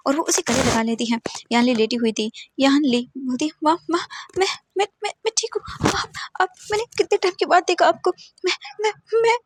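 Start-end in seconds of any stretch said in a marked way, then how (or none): 3.6-9.4 high, stammering tearful voice; breaking into tears at seeing mom; tearful daughter. A narrator's reading. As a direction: daughter crying to her mother. Daughter wakes from coma.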